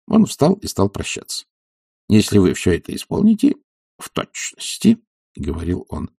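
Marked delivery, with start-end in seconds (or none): 2.1-5.0 a self-assured physician lecturing his patient; doctor's voice. Acted. Doctor prescribing a regimen to Oblomov, confidently.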